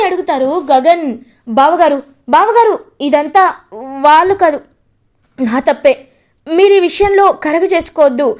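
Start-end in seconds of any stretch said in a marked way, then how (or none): 1.6-8.3 urgent pleading. Acted. Vamshi pleads with Gagan.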